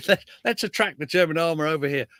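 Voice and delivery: breezy, lightly voiced commanders making a plan; mock planner voice. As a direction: toss it off like a confident staff officer.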